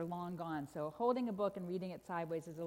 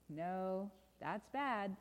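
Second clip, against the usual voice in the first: ominous correction; 3 dB quieter, much slower than usual. Acted. Story refrain, contradicting the delight.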